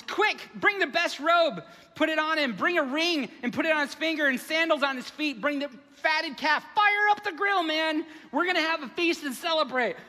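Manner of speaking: loud, high, joyful orders; father shouting to servants, loud and joyful; excited father. Retold or imitated. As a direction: call out the feast like an overjoyed dad.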